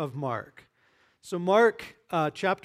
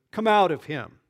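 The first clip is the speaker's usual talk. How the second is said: firm, louder command; stern command; 6 dB louder than usual. Acted. Jesus casting out the spirit, a firm stern command. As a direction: order the spirit out. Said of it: "He said sternly".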